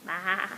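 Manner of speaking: sheep baa. Shown as a demonstration. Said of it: "What sound does a sheepy make?".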